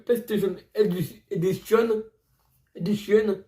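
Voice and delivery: attempted English accent on a game title; French speaker trying English pronunciation. Real, not acted. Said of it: "je prononce bien mon accent anglais".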